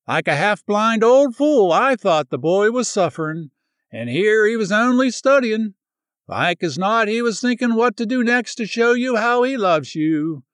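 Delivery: lightly voiced old country woman, happy and rambling; chatty old woman. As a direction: pour it out like a relieved old neighbor. Old neighbor woman's long speech.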